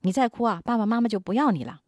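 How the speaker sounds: mock threat ending in a whisper; threatening parent. Parent threatening to abandon a crying child, mock menace. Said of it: "会威胁".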